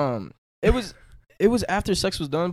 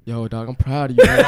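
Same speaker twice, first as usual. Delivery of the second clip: low-pitched imitation of a friend; put-on congratulating voice; 4 semitones lower, 4 dB louder than usual. Teasing a friend who called at a million, mock proud voice. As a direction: drop the pitch to mimic his praise. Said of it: "with that voice, I bet, too".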